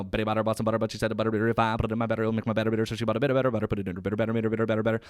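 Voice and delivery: rhythmic tongue twister; tongue twister recitation. Shown as a demonstration. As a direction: recite the Betty Botter rhyme in a steady rhythm. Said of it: "you get that and you go".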